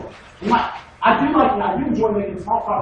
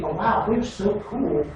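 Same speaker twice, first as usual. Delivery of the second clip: mock too-cool attitude; 2 semitones lower, 4 dB quieter than usual. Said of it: "that doesn't give me".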